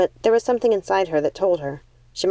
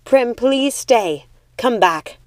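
calling after; 4 semitones higher, 3 dB louder, much slower than usual. Acted. Calling after departing sister.

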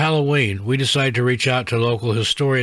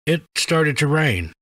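slow, trembling, higher; shaky voice; 4 semitones higher, slower than usual. Retold or imitated. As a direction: let the voice shake with fear. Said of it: "Victor said in a shaky voice".

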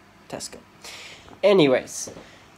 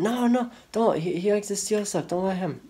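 put-on warning girls; 5 semitones higher than usual. Voicing girls warning him.

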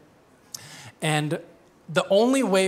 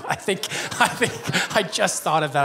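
laughing through the words; chuckling. Real, not acted. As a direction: chuckle at your own aside. Chuckling at his own aside.

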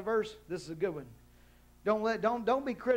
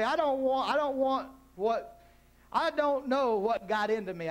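mock excuse; 5 semitones higher than usual. Mocking excuse-makers' whiny voice.

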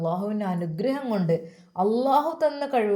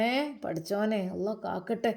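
prayer under the breath; 6 dB quieter than usual. Acted. Mother prays under her breath.

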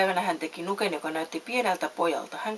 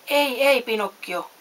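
loud higher warning cry; shouting; 5 semitones higher, 6 dB louder, slower than usual. A narrator's reading. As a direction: call out to stop him. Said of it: "huusi Samu Sirkka". (huutaen, kovalla äänellä)

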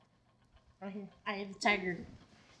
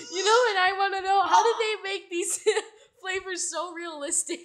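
laughing; 4 semitones higher, 3 dB louder than usual. Real, not acted. Laughing after gross bean.

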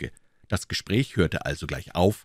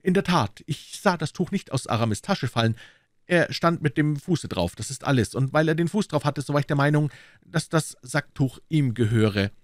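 slightly raised, tentative voice; timid; 7 semitones higher than usual. A narrator's reading. D'Artagnan venturing an explanation to Aramis, timid. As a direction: venture it shyly. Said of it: "wagte D'Artagnan schüchtern zu bemerken".

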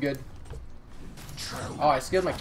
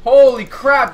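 surprised; 9 semitones higher, 12 dB louder, slower than usual. Real, not acted. Surprised by enemies.

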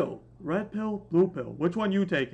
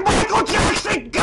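louder, higher hype shout; hype call; 5 semitones higher, 4 dB louder than usual. Real, not acted. Vlogger kicking off the video, hype call. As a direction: call it out like a kick-off.

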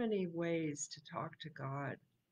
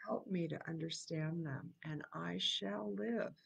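whispered prayer. Shown as a demonstration. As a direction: breathe the words as a private prayer. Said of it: "repeats the line".

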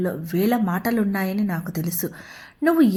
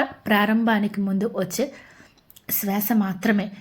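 breathy hushed whisper to close the thought. Acted. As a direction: let it fade into a whisper like a breath. Baba's message, soft climax. (గుసగుసగా చెప్పడం)

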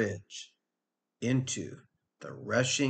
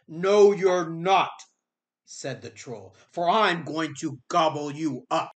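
troll voice; 4 semitones higher than usual. Acted. Troll blocks the goat.

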